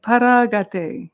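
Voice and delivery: slow, drawn-out phrase for repeating; call-and-response model. Shown as a demonstration. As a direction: lead the group slowly, leaving room to echo. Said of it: "repeat after me".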